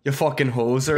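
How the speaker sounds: a light mock Canadian accent insult. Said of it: "gotta call him a hoser if you're doing Canadian".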